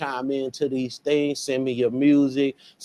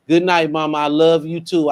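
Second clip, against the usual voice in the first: louder, a fond answer back to mom; loud reply; 6 dB louder than usual. Real, not acted. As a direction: call it out to her.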